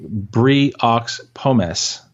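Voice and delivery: slow, badly faked French; mock French. Shown as a demonstration. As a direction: order it slowly in mock French. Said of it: "that's how you'd say it in France".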